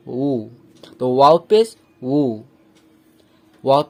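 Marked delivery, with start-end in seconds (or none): 0.1-0.5 উ as a w glide midway between "oo" and "voo". Shown as a demonstration. Teacher showing the correct letter, উ between oo and voo. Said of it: "ভু এর মাঝখানেরটা হবে".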